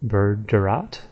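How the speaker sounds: "Berderat" with no G; correct way. Shown as a demonstration. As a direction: say "Berderat" as BER-de-rat. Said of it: "actually pronounced Berderat".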